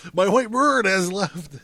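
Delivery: a bitter laugh breaks in. Acted. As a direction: laugh through the words. Laughs again at bird.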